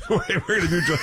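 excited laughing outburst; laughing shout. Real, not acted.

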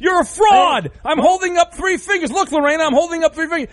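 bust him like a fake, hammed-up; caught-you shout at a fake blind caller; mock outraged shout. Host keeps mock-exposing the caller.

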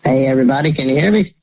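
disguised voice changer; electronically masked voice. Real, not acted. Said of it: "You sound funny".

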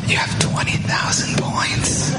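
breathless whispered shout; awed whisper-shout. Retold or imitated. Cashier telling a legend his points, awed whisper-shout. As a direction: hush it out in pure awe. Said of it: "the cashier is always like".

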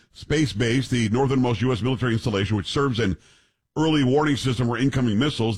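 reading a headline aloud; news read. Acted. Reads out a news story.

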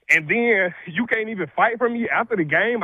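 ordinary talk, nothing marked

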